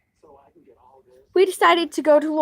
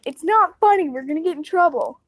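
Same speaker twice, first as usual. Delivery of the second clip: retold scolding; 4 semitones higher than usual. Scolding two smirking friends who may cause trouble, urgent retold protest. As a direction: tell off smirking friends, pitched up.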